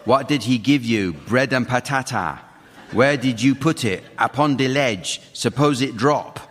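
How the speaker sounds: odd, effortful go at an Antiguan lilt; attempted Antiguan accent. Host performs a rhyme from Antigua for the teams, shaky attempt at an Antiguan accent. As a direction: chant it in a dubious Antiguan accent. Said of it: "you're not having some stroke or anything".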